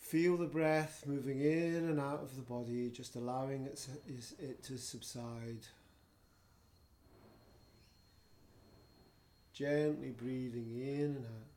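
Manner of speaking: measured breathing guidance with long pauses; guided meditation. Acted. Yoga teacher settling students into gentle breathing, guided meditation. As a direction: ease them into relaxation, phrase by phrase.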